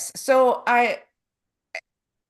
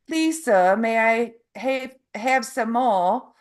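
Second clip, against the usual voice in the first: childhood play-acting in an English accent; measured, polite English-accented plea; 2 semitones higher than usual. Shown as a demonstration. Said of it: "say this phrase that I used to say when I was child".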